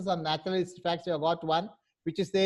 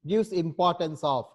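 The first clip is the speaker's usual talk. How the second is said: slow explaining; slower than usual. Shown as a demonstration. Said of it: "what is emphasizes means".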